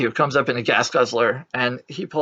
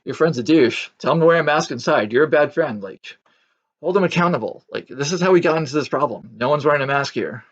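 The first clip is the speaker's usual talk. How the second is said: raised, louder exasperated scolding, quickened; mock telling-off; 3 semitones higher, 4 dB louder, faster than usual. Imagined rant at a maskless customer, raised exasperated scolding. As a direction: scold the unmasked guy in your head, fast and loud.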